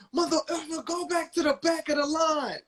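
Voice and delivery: high-pitched mock yell; yelling drunk man. Drunk man ordering someone back in line, mock yelling. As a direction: imitate an irate drunk hollering, pitched right up. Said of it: "I had heard him yelling".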